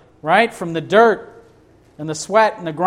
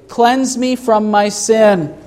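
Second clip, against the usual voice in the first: higher, slow, pleading cry; crying out pleadingly; 5 semitones higher, slower than usual. Acted. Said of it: "So he cries out".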